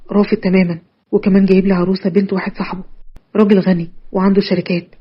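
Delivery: a hint of a downcast boyfriend; lightly voiced suitor.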